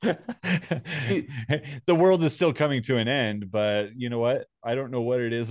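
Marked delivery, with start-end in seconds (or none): 0.0-3.5 slow, laughing through the words. Real, not acted. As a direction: chuckle through a grim joke about himself. Laughs through a dark joke.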